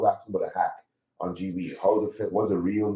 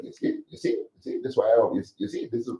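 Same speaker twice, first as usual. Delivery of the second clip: mocking voice. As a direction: mimic a whiny know-it-all. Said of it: "people will be like".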